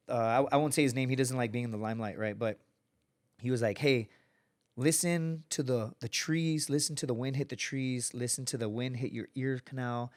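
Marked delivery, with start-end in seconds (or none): 3.8-10.1 real calm. Retold or imitated. Instructor softly talking a suffering student through the hold. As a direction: talk them down gently, like guiding a meditation. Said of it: "Real calm".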